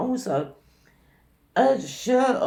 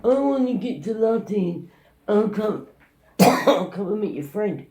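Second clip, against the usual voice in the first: raised, higher pestering voice; mimicked yelling; 5 semitones higher, 4 dB louder than usual. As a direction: insist like an obnoxious stranger inviting himself along. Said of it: "that's how much you were yelling".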